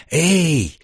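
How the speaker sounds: a sharp call into himself; shout. Acted. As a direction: call out hey after a fading voice. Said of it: "выкрикнул я вглубь себя".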